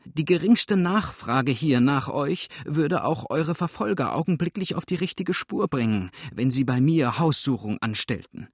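high, agitated woman's voice; worked-up, despairing protest; desperate pleading. A narrator's reading. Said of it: "rief die würdige Dame in Verzweiflung".

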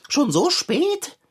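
cat panicking before his election speech, hammed-up fluster; flustered panic. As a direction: rattle it off in a theatrical panic. Kater panics about his speech.

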